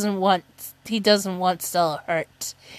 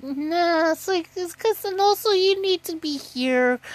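higher, softer offhand refusal; lightly voiced boss; 8 semitones higher, 4 dB quieter than usual. Chief telling him to stay put, lightly voiced offhand refusal. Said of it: "who told him was like".

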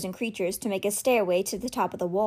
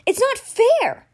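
much higher and louder, slow; boy crying out in despair; anguished wail; 14 semitones higher, 7 dB louder, much slower than usual. A narrator's reading. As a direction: drag out the unfairness. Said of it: "he cried".

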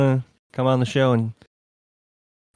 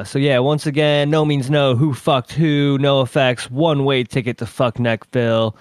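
slow, drawn-out DJ read of the playlist; radio back-announce; slower than usual. Acted. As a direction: sell the song titles like a late-night punk radio host.

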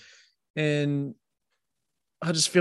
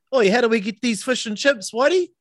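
1 mock asker; 8 semitones higher than usual. Mocking voice asking for chips.

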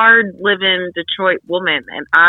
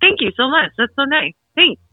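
dazed polite thanks; 9 semitones higher than usual. Retold or imitated. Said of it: "I was just like".

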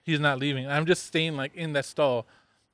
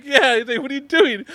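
raised, higher dad voice; 10 semitones higher, 7 dB louder than usual. Retold or imitated. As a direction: call out like a puzzled dad.

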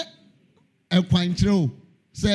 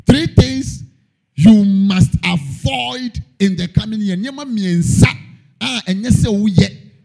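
louder preaching; 3 semitones higher, 5 dB louder, slower than usual. Acted. Preacher raises voice.

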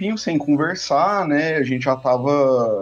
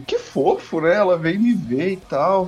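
higher, slow, touched "que fofo"; mock touched; 5 semitones higher than usual. Retelling his reply to his dad, mock touched. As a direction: play it sweetly moved. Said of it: "Eu falei assim".

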